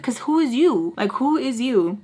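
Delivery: retold sassy challenge; sassy retort. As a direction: challenge him with attitude. Retold snappy retort to him.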